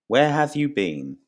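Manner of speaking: mock exasperated question. Teacher acting someone searching for a friend, mildly exasperated. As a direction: call it out as if they went missing.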